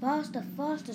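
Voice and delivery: high, loud little squeal; excited high-pitched urging; squeaking. A narrator's reading. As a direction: squeak it out eagerly. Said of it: "squeaked Miranda".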